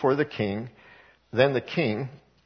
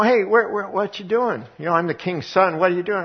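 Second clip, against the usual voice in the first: higher-pitched hail to passing travellers; calling out; 5 semitones higher than usual. Retold or imitated. Preacher as Absalom hailing travellers at the gate, higher calling voice. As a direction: call out to a stranger from the gate.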